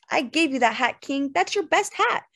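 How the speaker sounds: indignant voice climbing high; sharply rising trill. A narrator's reading. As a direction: let the protest rise sharply. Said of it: "Her voice rose sharply in its trill".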